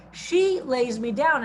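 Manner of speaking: "She" stressed at the start, slow line. Shown as a demonstration. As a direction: slowly read the verse, leaning on "She". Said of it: "Manda's emphasis on the gender".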